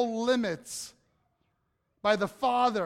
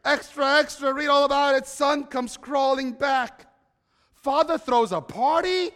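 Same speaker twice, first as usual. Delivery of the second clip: loud newsboy shouting headlines; rapid old-time reporter; 4 semitones higher, 8 dB louder than usual. Pretend. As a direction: hawk the headline at full voice. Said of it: "See, headlines".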